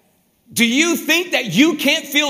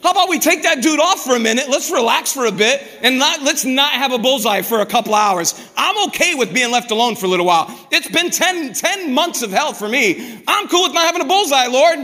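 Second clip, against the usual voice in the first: fast, higher, pleading plea to God to lift the target; exasperated honest prayer; 3 semitones higher than usual. Retold or imitated. Preacher voicing a weary believer begging God for a break, exasperated and fast. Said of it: "What do you say?".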